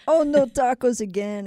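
hammed-up groaning over lunch; joke character. Construction worker opening lunchbox to tacos again, mock dismay. Pablo voiced again at punchline.

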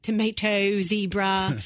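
lightly imitated British pronunciation; a touch of British English on each word; British accent. Parent quoting kids' Peppa Pig words, light British accent. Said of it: "this sort of British accent".

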